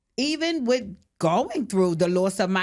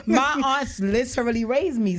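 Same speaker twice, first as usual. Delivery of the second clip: laughing through; 8 semitones higher, 3 dB louder than usual. Real, not acted. Friend teased her, she laughs.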